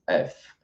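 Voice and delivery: "F" ending on air, no trailing vowel; just breath through the lips after "F"; no final i sound; French F. Shown as a demonstration. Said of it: "não tem o sonzinho de I depois".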